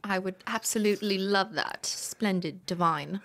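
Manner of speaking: playful British gush; hammed-up British approval; mock British accent. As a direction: put on a fancy British accent. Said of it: "if there's a British version".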